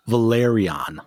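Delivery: Valyrian ending in a long "ahn"; corrected Valyrian. Shown as a demonstration. Host showing the correct way, Valyrian ending "ahn". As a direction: sound out Valyrian with stress on "lair". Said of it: "How are you supposed to say it?".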